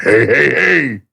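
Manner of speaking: slow lightly voiced Fat Albert; a hint of the cartoon's hey hey hey; Fat Albert catchphrase. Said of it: "Say my Fat Albert".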